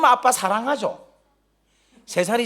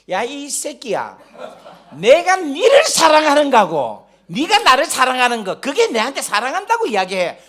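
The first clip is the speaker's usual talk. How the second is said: loud, raised playful indignation; mock angry outburst; 3 semitones higher, 5 dB louder than usual. Father inwardly scolds his child over love, in comically angry protest. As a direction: act out a dad's comic exasperation, building louder. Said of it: "막 화가 나는 거야".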